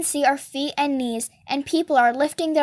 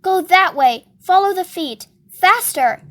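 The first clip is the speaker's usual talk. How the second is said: higher, insistent calling; urging on; 4 semitones higher, 5 dB louder than usual. A narrator's reading. Freak steering his mount away from Blade, urging. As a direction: drive them onward, pressing. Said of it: "he's urging me on".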